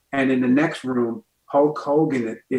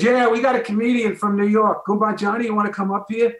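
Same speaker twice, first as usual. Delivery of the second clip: high, louder voice of an oblivious announcer; clueless host impression; 9 semitones higher, 3 dB louder than usual. Guy introducing the New York comedian, mock announcer. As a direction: call the comic up, pitched way up.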